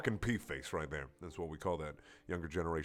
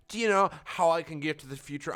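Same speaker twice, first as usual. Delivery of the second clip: redone Wheatley line; 5 semitones higher, 4 dB louder than usual. Acted. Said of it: "I gotta fix this, one second".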